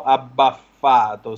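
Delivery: abbaffato said slowly in Sicilian dialect; drawn-out Sicilian abbaffato; Sicilian dialect word. Shown as a demonstration. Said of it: "lo dico in dialetto siciliano".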